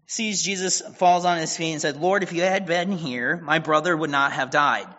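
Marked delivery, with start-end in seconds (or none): 2.0-4.9 raised, pleading, grief pushing the voice up and louder; anguished Mary. Retold or imitated. Mary at Jesus' feet, a raised, pained reproach. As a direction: throw the accusation out through the grief.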